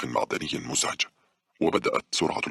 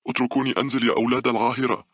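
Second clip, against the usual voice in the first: loud, high hysterical yell; hysterical screaming; 10 semitones higher, 5 dB louder than usual. A narrator's reading. Old woman cursing passengers to let her off, hysterical. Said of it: "صراخ العجوز بهستيريا".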